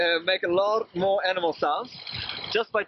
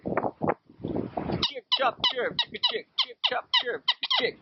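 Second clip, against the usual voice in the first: high piping whistle chirps; bird-like whistled chirping; whistled through the wacky whistle; slower than usual. Shown as a demonstration. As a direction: blow the syllables through the whistle as shrill chirps. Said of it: "That's the easiest sound everybody can make".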